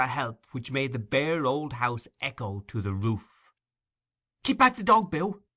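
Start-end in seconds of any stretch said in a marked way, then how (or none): 4.4-5.4 high, loud desperate cry. Acted. Nancy crying to Bill to hold back the dog, loud. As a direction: shout to stop him. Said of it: "cried Nancy".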